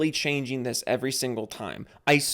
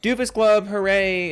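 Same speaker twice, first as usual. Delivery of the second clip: high, bright cheer for the club; cheery announcement; 5 semitones higher, 4 dB louder than usual. Acted. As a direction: launch the shoutouts with a hooray. Cheering the club shoutout intro.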